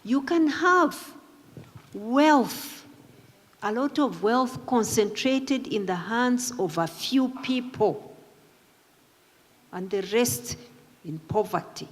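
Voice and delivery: slow, weighty, every word placed; slow deliberate quote. Retold or imitated. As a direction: lay the quote down slowly for weight. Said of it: "and listen to it carefully".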